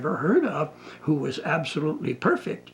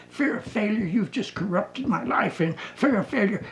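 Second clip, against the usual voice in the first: rising voice; 6 semitones higher than usual. Retold or imitated. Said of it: "her voice is rising".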